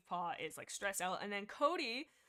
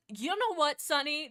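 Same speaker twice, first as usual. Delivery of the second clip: excited; 6 semitones higher, 9 dB louder than usual. Real, not acted. Praising a fan's sharp point.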